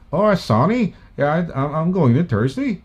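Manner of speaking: imitated Belfast singsong; lilting mock Northern Irish accent. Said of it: "Ganun nga, may tunog sila eh". (panggagaya ng puntong Irish)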